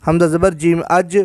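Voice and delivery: اج joined, its j released with a small echo; qalqala on jeem. Shown as a demonstration. Teacher shows that jeem is qalqala too, bounced final j. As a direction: spell حمزہ زبر جیم, then اج with a bouncing final j. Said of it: "یہ بھی قلقلہ ہے".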